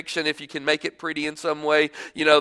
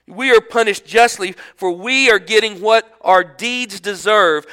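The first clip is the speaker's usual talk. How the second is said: slow, louder, drawn out on each breath; strained rebuke; 3 semitones higher, 5 dB louder, slower than usual. Acted. Criminal defending Jesus while struggling to breathe. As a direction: push the words out through pain.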